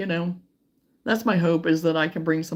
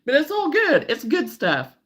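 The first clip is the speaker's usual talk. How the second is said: emotional laugh; 10 semitones higher, 6 dB louder than usual. Real, not acted. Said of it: "I'm gonna get emotional here in a minute".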